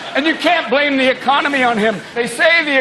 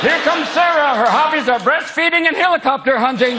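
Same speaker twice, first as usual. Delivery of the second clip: game show announcer; 6 semitones higher than usual. Retold or imitated. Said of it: "game show announcer intro".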